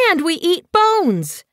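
high, slow, spiteful threat; spat. Acted. Snowfur scaring the kittypet, slow and spitting. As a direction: spit each word to scare it off. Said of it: "Snowfur spat".

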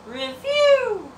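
drawn-out, high announcer yell; announcer shout. Acted. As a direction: belt the last word like a ring announcer. Announcer wrestling review intro.

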